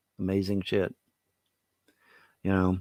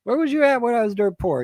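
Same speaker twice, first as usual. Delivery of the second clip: higher, louder accusing repeat; mock indignant again; 10 semitones higher, 4 dB louder than usual. Man repeating his rebuke to relatives, higher and louder. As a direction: hammer the accusation home. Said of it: "it's like".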